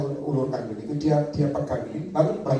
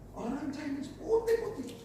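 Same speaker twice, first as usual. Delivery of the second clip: hushed; 11 semitones higher, 10 dB quieter, slower than usual. Real, not acted. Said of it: "nggak usah terlalu keras".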